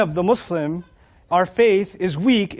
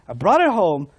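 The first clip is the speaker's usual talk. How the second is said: ordinary delivery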